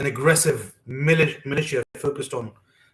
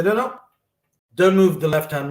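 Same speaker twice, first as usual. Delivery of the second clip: mother's correction; 3 semitones higher, 6 dB louder than usual. Retold or imitated. Retold mother correcting hand movement.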